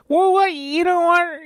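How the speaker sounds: high, loud hollered complaint; loud Idaho camper. Retold or imitated. Edward complaining loudly to the campground, high hick holler. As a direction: holler it so the whole campground hears. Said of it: "Edward Marcus Wallace would be like".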